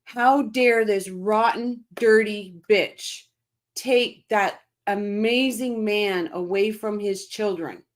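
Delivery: slow, heated rant that fades at the end; real anger. Real, not acted. Host to chat, still fuming over the boys' lost father, angry. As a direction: let the anger drag each word out. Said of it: "I'm getting angry".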